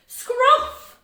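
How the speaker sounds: loud, high-pitched exclamation; excited. Shown as a demonstration. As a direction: call it out high and loud in triumph. Teacher celebrates the blended word.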